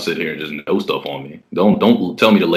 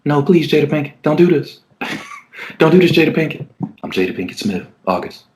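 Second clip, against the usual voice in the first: a lightly higher, pleading impression; pleading August; 8 semitones higher than usual. Man imitates the young singer begging his older lover, higher and pleading. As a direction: beg her like a lovesick young singer. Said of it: "That's how he starts talking".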